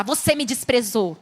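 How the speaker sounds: a plain, blaming statement; mild accusing tone of bad feedback. Shown as a demonstration. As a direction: pin the fault on them. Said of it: "Em vez de você falar".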